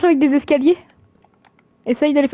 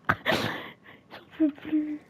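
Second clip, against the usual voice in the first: breathless from laughing; 14 dB quieter, much slower than usual. Real, not acted. Helpless from laughter.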